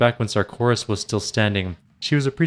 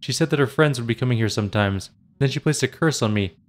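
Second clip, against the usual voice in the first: near tears. Acted. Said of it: "on the verge of tears".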